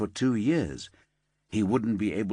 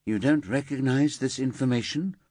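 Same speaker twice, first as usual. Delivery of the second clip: disbelief; 4 semitones higher than usual. Acted. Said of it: "Paula laced her voice with disbelief".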